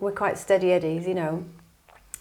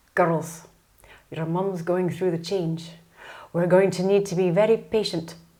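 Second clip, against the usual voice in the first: put-on Scottish accent in a dad voice. Retelling a dad's words to the girls in the car: imitating dad's scottish accent. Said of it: "my parents are very Scottish".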